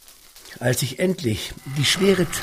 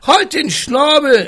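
loud gruff bark of a captain; growled command; 14 semitones higher, 8 dB louder than usual. Acted. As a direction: shut the parrot up gruffly. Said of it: "Seine knurrige Stimme".

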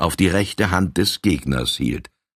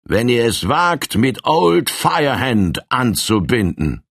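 higher and bold, challenging; defiant call; 5 semitones higher than usual. Acted. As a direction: dare them to come on. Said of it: "erhob die Arme und rief".

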